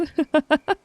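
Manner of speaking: sharp, loud, rising laugh. Acted. Assassin laughing after threatening the heir, loud laugh. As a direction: burst out laughing at your own threat.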